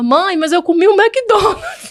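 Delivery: high, slow, tearful pleading voice.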